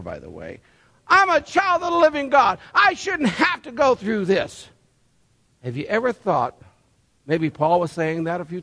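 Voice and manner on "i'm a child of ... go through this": mock complaining believer. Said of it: "I've heard this before".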